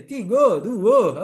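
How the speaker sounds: tigo, dua counted the Padang way, loud; Padang accent. Shown as a demonstration. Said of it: "orang Padang".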